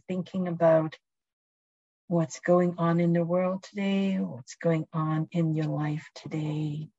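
calm, unhurried guiding voice; guided meditation. Acted. Leads a presence meditation.

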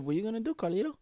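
high, soft character impression; Luis Guzman. Showing a friend how the actor talks, impression. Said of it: "Like that".

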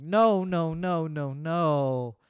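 mock wail of a kid refusing, high and loud at first; protesting child. Dad acting out his kid dodging nap time, protesting loudly. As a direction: imitate a kid's loud drawn-out refusal.

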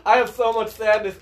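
mock his friend's mood swing; mocking imitation. Friend parodying the others' exchange, teasing. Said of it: "what was that comment".

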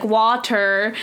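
imitated American R in "water"; American accent. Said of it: "like, the American accent sounds".

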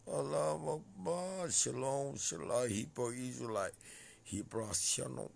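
loud, high-pitched calling out; shouted invocation. Real, not acted. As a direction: cry out each greeting loudly. Calling out religious greetings.

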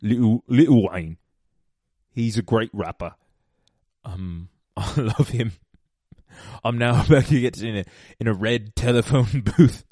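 bad, hammed-up British accent; terrible mock-British accent. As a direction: put on a silly British voice. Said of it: "like, a British person".

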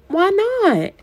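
put-on high squeaky defiant child; sassy little girl. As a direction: talk back like a brat. Sassy six-year-old challenges brother.

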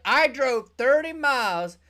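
exasperated employee. Retold or imitated. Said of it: "And you're like".

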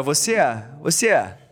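loose-mouthed Rio "você é", A tacked on; slack-mouthed Carioca accent. Shown as a demonstration. Demonstrating carioquês to co-hosts, slack-mouthed Carioca accent. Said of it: "você deixa a boca meio mole".

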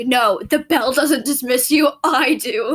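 slow, emphatic teacher quote; lightly voiced teacher laying down the rule; imitating strict teacher. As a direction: slowly put the class in its place. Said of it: "and she's like".

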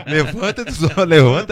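loud, punchy order to get up; mock shouted order. Fighter yelling at his friend to stand up, loud shouted order.

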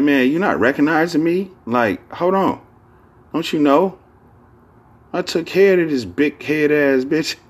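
high-pitched aggrieved complaint; mock indignant protest. Man demanding recognition for looking after her, indignant. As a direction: protest high, building to a laugh. Acting out a man's grievance.

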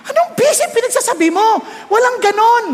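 exasperated scolding of the congregation; rebuking. Real, not acted. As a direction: slap down the excuse. Preacher rebukes excuse.

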